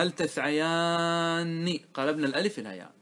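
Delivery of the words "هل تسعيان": slow demo. Shown as a demonstration. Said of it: "كما قلنا".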